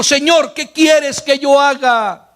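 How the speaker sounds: slow, lightly trembling plea; a touch of fearful Saul, slow. Acted. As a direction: ask the Lord humbly, in mild fear. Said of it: "él temblando y temeroso dijo".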